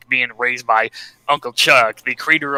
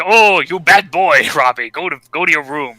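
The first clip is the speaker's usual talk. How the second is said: mock scolding; 4 semitones higher, 4 dB louder than usual. Uncle Chuck to young Robbie, mock scolding. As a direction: scold like a lightly played parent.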